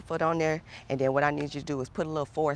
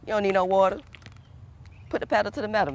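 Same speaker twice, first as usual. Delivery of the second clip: higher and louder, cutting the excuses; firm raised push; 6 semitones higher, 4 dB louder, faster than usual. Real, not acted. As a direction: brush off the complaint with force.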